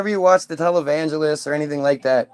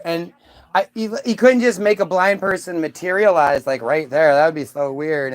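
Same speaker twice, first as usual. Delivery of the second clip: smug boasting. Retold or imitated. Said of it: "arrogant ass Jesus goes".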